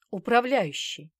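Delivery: plain reading voice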